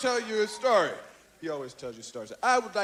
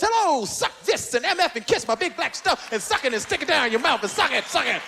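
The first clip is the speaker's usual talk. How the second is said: rushed run-on string of dirty words; child imitating a comic. Son repeating the comic's act to his father, gabbled mimicry. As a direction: rattle off the stage act, tumbling along. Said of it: "he walks out and he goes".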